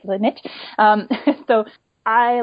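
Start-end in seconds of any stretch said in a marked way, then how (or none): 0.2-0.4 niche said as "nitch"; American pronunciation. Shown as a demonstration. Checking the American word with hosts, niche pronounced "nitch". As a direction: say niche to rhyme with pitch. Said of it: "would call it, right?".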